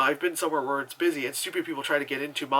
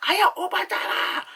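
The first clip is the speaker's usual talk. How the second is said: put-on very high, loud caricatured Asian accent; mock Asian accent; 4 dB louder than usual. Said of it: "Asian woman".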